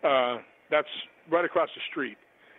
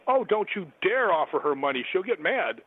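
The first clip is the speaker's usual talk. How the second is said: higher, imitated friendly telling-off; mock scolding; 4 semitones higher than usual. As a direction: wave off the offer with playful indignation. Carolyn's retold scolding refusal of money.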